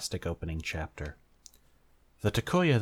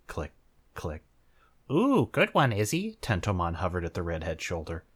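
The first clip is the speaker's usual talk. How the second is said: reading a fanfic aloud with lively character voices; story narration. A narrator's reading. Reader to audience, narrating a fanfic with light voices. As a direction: tell it like a storybook.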